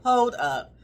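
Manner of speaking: laughing. Real, not acted. Third take, with a laugh.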